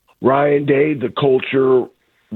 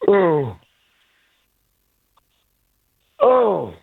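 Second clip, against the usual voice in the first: yawning; 3 semitones higher than usual. Real, not acted. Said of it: "That was a yawn".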